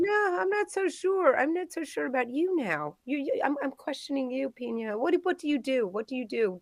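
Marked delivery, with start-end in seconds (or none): 0.0-1.4 high, slow, lightly suspicious drawl. Acted. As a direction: lean in, mildly suspicious. Suspicious interrogation in odd voice.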